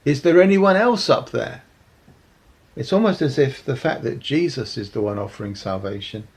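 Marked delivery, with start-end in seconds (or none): 0.1-1.6 high, loud hopeful call; shouting up. Acted. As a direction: shout up past the first answer. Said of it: "and then they shout again".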